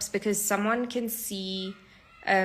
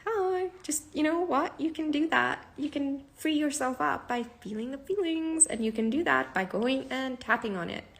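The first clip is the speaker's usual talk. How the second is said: much higher, bright encouraging push; high eager coaxing; 6 semitones higher than usual. Retold or imitated. On a call, urging a friend to tap, high and eager. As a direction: coax a friend to try it, pitched way up. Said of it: "I'm like".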